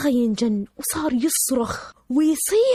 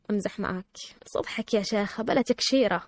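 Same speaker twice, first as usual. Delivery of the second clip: softer, lower reassurance; gentle teasing aside; 3 semitones lower, 6 dB quieter than usual. Retold or imitated. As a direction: drop it low, coaxing her to cheer up. Friend softens, joking to cheer her.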